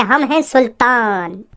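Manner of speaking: slow, low and menacing self-announcement; dramatic boss line. Acted. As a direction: drop it slowly like a movie villain. Gang boss announces himself. (धीमे, नीचे सुर में फ़िल्मी खलनायक अंदाज़)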